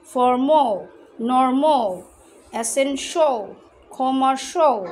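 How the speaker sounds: "ফর্মো" and "নরমো" end in a rounded "o" sound. Shown as a demonstration. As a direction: drill words, each ending on "o". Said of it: "সেটা হবে ও".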